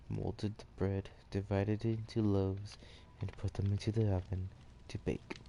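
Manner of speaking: measured read-aloud storytelling; story narration. A narrator's reading.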